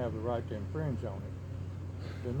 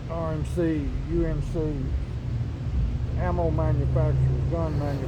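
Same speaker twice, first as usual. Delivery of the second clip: louder and more forceful, pressing each name; raised voice; 3 semitones higher, 5 dB louder than usual. Real, not acted. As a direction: lean in hard on every company name. Heated rant naming gun companies.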